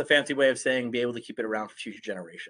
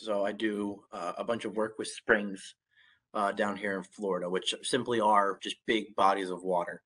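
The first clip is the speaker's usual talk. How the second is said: blocked nose, stuffy voice; congested; 2 semitones lower than usual. Real, not acted. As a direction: talk through a stuffed-up nose. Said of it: "I apologize for if I sound congested".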